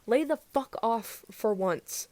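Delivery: slow, loud furious yell; angry shout. A narrator's reading. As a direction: shout him off, slowly. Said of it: "Kyotani shouted at the other".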